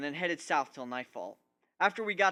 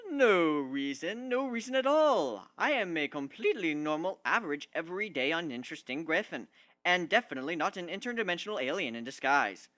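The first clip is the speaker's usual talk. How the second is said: bad poker face. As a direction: play it as an obvious, hammy lie. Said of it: "purposefully doing a bad poker face".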